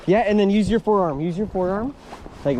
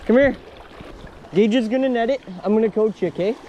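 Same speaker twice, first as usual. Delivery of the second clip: fighting a fish; 3 semitones higher, 3 dB louder than usual. Real, not acted. Hooked fish, urgent instructions.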